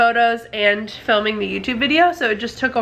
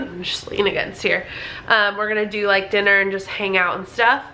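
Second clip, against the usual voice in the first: out of breath. Real, not acted. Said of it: "Why do I always get so out of breath running up the stairs?".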